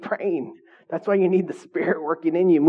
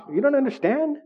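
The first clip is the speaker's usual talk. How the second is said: incredulous retort; 2 semitones higher than usual. Retold or imitated. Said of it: "It's like".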